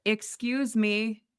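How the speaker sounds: high, slow indignant excuse me; pointed excuse me. Retold or imitated. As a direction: call him out, drawn out. Calling out ignoring ex.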